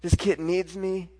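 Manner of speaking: re-enacted desperate praying, pressing each question; pleading prayer. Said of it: "I'm just going at it".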